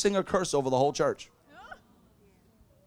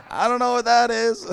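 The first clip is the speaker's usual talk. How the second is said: higher, louder mock-innocent denial; exaggerated know-nothing protest; feigned innocence; 3 semitones higher, 5 dB louder than usual. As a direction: play innocent, pitching the denial up.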